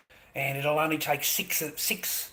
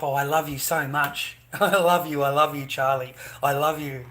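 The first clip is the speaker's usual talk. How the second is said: mocking wife; 5 dB louder than usual. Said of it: "it suddenly pipes up".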